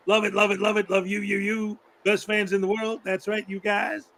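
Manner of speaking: lightly voiced hype-man teacher; teacher impression. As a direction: pump up the fans, showman style. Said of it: "That was an impersonation of my high school algebra teacher".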